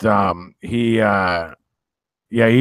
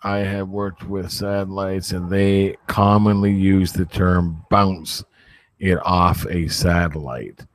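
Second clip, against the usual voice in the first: imitating Pete Wiener. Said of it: "That's my friend Pete Wiener".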